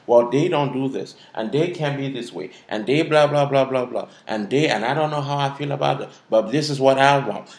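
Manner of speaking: lightly put-on sassy complaint; sassy attitude. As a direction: act out a feisty, self-righteous objection. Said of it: "black girl attitude".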